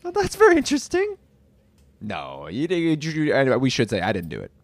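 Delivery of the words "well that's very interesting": suspicious detective. Acted.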